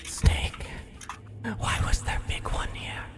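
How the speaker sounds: hushed, breathless creature whisper; whispering rat. Acted.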